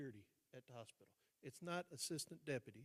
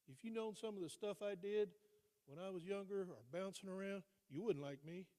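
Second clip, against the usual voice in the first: retold defiance; 5 semitones higher, 4 dB louder than usual. Her retold angry challenge.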